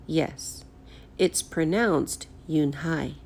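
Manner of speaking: Yoon-hai said slowly and carefully, YOON then HAI; teaching the name Yoon-hai slowly; clear, careful pronunciation. A narrator's reading. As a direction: spell out Yoon-hai gently, syllable by syllable. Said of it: "Mister Kim added".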